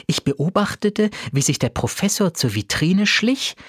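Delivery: ordinary delivery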